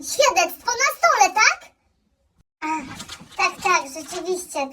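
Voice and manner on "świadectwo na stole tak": "Świadectwo na stole" said again louder and higher, irritated; annoyed repeat. Acted. Son snaps at his mother for not listening, louder. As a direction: repeat it as if she's stupid. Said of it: "A co ja przed chwilą powiedziałam?".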